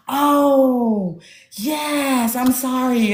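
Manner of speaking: high, drawn-out sheepish sorry; mock apology. Author apologizing to her upset brother, high sheepish mock apology. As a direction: act out a guilty little apology.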